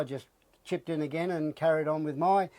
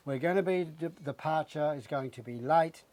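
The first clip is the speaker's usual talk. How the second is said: slow, preachy mock megaphone announcement; mocking the ferry worker's sanctimonious megaphone voice; 3 dB louder than usual. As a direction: imitate a smug ferry announcer over the megaphone. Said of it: "in a real sanctimonious vo-, voice said".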